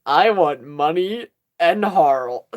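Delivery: very slow mock-dazed quote; blank staring. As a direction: stretch each word, lightly imitating a blank stare. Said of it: "it's just like".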